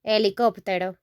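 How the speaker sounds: "Helicóptero" with silent h, stressed KOP; Spanish pronunciation. Shown as a demonstration. Teacher repeating after explaining the accent, "Helicóptero" stressed on ó. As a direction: say "Helicóptero" as eh-lee-KOP-teh-ro. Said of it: "in the O".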